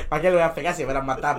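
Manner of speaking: usual speaking voice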